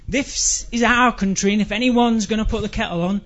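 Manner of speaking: determined opening drifting into polite tea chat; trailing off. Acted. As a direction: let the bold declaration peter out politely. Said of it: "we always trailed off at the end".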